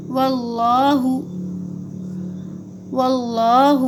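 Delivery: واللہ with a thick, dark "Lloh"; heavy L. Shown as a demonstration. Teacher showing learners the thick Lam of Allah, heavy L. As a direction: fill the mouth on the L of واللہ. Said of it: "اللہ کا جو لام ہے وہ موٹا پڑھنا ہے".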